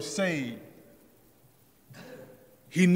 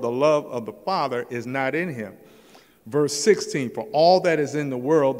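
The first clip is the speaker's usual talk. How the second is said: louder, measured pulpit reading; scripture reading; 3 dB louder than usual. Acted. Preacher reads John to the congregation, measured and loud. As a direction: read the verse like a preacher.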